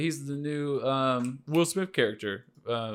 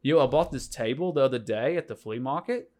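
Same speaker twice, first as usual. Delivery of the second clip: statement turned question, Aussie lilt; Australian accent. Shown as a demonstration. Demonstrating to friends that Australian turns everything into questions. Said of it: "everything just needs to be a question".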